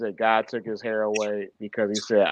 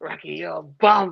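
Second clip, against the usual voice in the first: put-on character voice, higher pitch, creaky rough edge; 7 semitones higher, 4 dB louder than usual. Joking about a friend's trash talk, quoting Mickey from Rocky voice. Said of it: "You sound like Mickey from Rocky".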